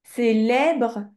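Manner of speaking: célèbre said slowly, é then open è; stressed demo. Shown as a demonstration. Teacher sounds out a misspelt word for a pupil, demonstrating. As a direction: sound out "Célèbre" in two clear beats. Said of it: "Ah, non".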